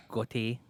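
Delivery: "Gautier" in two syllables, like go-tee-ay; alternative pronunciation. Shown as a demonstration. Co-host suggesting how the acronym would sound, "Gautier" French-style. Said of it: "maybe it wouldn't sound like goat".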